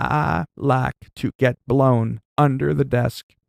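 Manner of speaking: slow, drawn-out, awkward, cringy voice. Joking about US presidents, doing a cringy Bill Clinton impression. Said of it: "that was a cringy impression".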